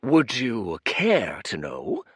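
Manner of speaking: slow, stately offer; dignified. Acted. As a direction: draw yourself up and ask grandly. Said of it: "managed a dignified air".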